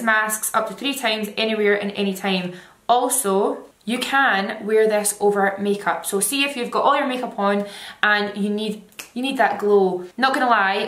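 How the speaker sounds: talking through mask mouth hole; wearing a face mask. Real, not acted. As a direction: snug mask on cheeks. Seen 4: White mask covers whole face throughout, mouth hole open; R frames bare.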